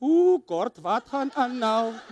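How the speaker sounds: slow, mock dread; a touch of hammed-up worry; dreading inner thought. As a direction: groan inwardly at being summoned by the boss. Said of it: "the tone is like".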